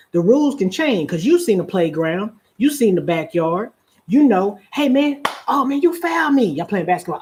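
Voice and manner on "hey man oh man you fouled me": higher-pitched mock complaint; protesting ballplayer. Player complaining of a foul in basketball, mock indignant protest. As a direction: cry foul like a playground player. Acted playground basketball quarrel.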